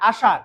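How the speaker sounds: আসার said "aashaar", tongue not touching; sh in আসার made clear of the palate; retroflex sh. Shown as a demonstration. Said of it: "কোনো touch করবে না". (আসার-এ মূর্ধন্য ষ, জিভ ছোঁবে না)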